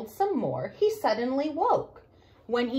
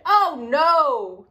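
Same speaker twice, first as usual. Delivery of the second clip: alarmed; 2 semitones higher, 7 dB louder than usual. Acted. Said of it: "Daddy cried".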